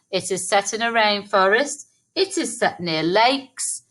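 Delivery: "It is set in a rainforest" rattled off quickly; just run through it fast; quick recap. Shown as a demonstration. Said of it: "We could also write another sentence".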